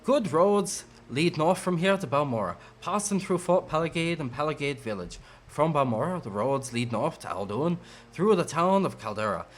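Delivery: lightly voiced Irish scout; Irish accent. Scout gives a traveler directions to Balmora, put-on Irish accent. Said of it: "you suddenly have an Irish accent".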